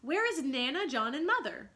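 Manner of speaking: put-on a small boy begging his brother to wake; little boy calling for his mother; crying out. A narrator's reading. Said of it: "Michael would cry".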